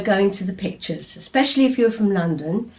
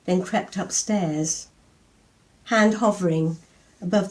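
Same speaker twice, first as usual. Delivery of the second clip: poem reading. Acted. Poem read aloud to audience.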